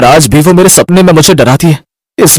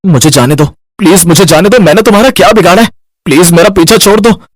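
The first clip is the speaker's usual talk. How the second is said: nightmare moaning; 5 semitones higher, faster than usual. Acted. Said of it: "Raghav नींद में कुछ बड़बड़ा रहा था".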